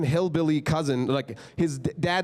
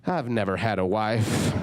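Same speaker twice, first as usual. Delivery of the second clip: put-on lower, slow drunken joke; drawled like a drunk hillbilly; drunk Willie; 5 semitones lower, slower than usual. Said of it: "And then he goes".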